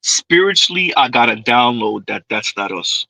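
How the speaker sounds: mocking her spiritual download; mocking imitation. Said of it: "Oh boy".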